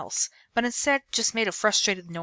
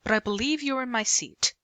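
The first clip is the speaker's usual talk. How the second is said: put-on British accent; 5 semitones higher than usual. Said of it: "he spoke with a British accent".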